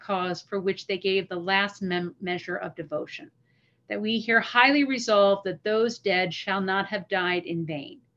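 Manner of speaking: measured, solemn reading of a famous speech; formal recitation. Acted. Recites the Gettysburg Address.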